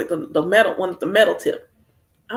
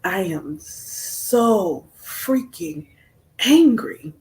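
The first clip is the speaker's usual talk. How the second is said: building anger; much slower than usual. Retold or imitated. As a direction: let the anger build to a burst. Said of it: "I was like".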